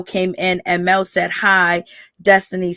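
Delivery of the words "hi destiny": ordinary talk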